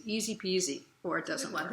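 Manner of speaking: normal talking voice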